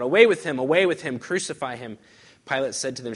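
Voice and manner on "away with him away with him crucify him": high, loud cry of the mob; crowd shout. Acted. Crowd yells at Pilate for Jesus' death, loud and high. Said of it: "they cried out".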